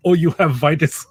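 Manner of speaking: hammed-up European fan; generic European accent. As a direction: put on a broad, all-purpose European accent. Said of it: "this is my generic European accent".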